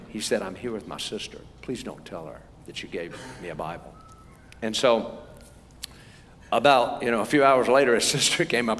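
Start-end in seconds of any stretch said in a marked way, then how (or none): 0.4-3.9 low, hushed confidential plea; imitated whisper. Man hiding it from his sister, whispering. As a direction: drop to a very soft, secretive murmur. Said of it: "he whispered to me".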